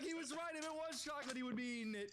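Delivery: high-pitched, incredulous realization; amazed disbelief. Retold or imitated. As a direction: say it like you can't believe it. Realizing friend's prediction came true.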